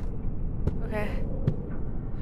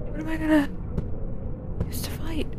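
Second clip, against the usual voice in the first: whispering; 4 semitones higher, 16 dB quieter, faster than usual. Real, not acted. Hiding, scared.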